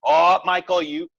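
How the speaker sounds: high, spluttering mock outrage; mock indignation. Imitating outraged friends scolding him over memes, high mock indignation. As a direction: mimic a flustered scold, pitch leaping up.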